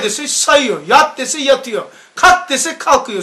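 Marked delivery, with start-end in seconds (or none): 0.9-1.2 short, loud order; barked command. Retold or imitated. Colonel ordering troops. 2.1-2.5 high, loud order; barked command. Retold or imitated. Colonel ordering troops.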